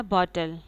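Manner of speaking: बॉटल as foreign speakers say it; teacher's careful demo of बॉटल; foreign-speaker pronunciation. Shown as a demonstration. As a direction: model बॉटल with initial ब and falling end. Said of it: "foreign speakers में बोलेंगे ना".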